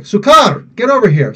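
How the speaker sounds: calling sukar high and loud; playful high call across the room; mock calling out. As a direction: shout it like calling someone over. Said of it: "It's like".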